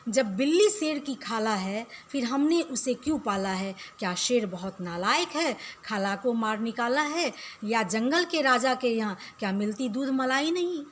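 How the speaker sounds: steady rhythmic verse reading for pupils; poem recitation. Acted. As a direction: read the rhyme out to the class. Recites next stanza.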